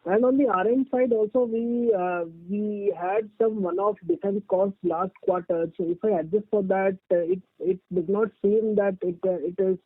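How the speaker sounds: muffled, like a hand over the mouth. Real, not acted. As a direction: speak through a muffled line. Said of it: "your voice is muffled".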